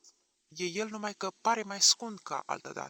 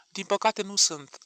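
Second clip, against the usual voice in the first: slow, louder, mournfully; sad grey voice; 4 semitones higher, 5 dB louder than usual. A narrator's reading. Lariosik answering Mîșlaevski, sad and grey. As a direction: say it with weary sorrow. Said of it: "o voce tristă și cenușie".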